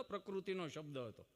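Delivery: ordinary talk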